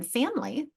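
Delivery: "family" said as FAM-lee; two-syllable pronunciation. Shown as a demonstration. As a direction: drop the middle vowel in "family". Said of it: "like two syllables".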